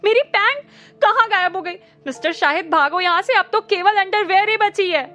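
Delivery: high, loud frantic scream. A narrator's reading. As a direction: scream for everyone to run. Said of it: "जोर से चीखा".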